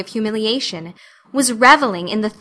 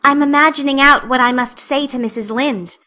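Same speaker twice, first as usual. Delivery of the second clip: dreamily; 4 semitones higher than usual. Acted. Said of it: "answered Anne dreamily".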